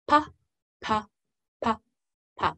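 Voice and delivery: single "pa" sounds, spaced out evenly; slow, even beat. Shown as a demonstration. Teacher demonstrating the exercise's first pattern, slow beat. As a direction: say each "pa" separately on a slow beat. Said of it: "that was our nice slow start".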